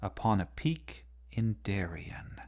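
fading to a whisper; whispered close of the poem; trailing whisper. Shown as a demonstration. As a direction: let it trail off breathily into Darien. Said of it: "the poem trails off a little bit at the end".

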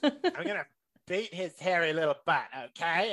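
high mock yell calling for the dog; dad shouting into the woods for his dog, in a high hammed-up yell.

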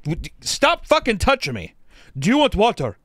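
high, loud mock yelling at the helpers; half-laughing retold shout; retold angry yelling. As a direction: bark it at them, fed up.

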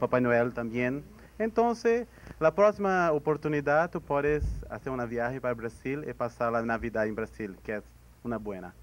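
Spanish and Portuguese mix; portunhol. Shown as a demonstration. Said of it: "Eu vou tentar falar em portunhol".

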